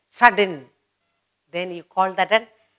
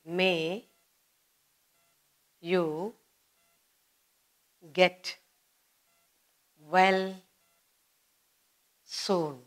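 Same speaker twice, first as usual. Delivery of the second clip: soft heartfelt wish; 2 semitones lower, 8 dB quieter, much slower than usual. Shown as a demonstration. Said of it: "expresses sudden, strong emotional feeling".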